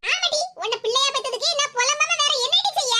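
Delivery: irritated mother scolding her daughter; exasperated retort; angry scolding. Acted. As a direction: scold with mild, aggrieved anger. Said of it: "இவ்வளவு கோவமா இருக்கா".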